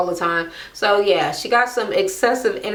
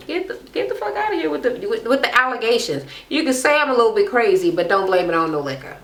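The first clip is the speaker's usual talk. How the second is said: mock defensive; 3 semitones higher, faster than usual. Voicing Claudia's defence.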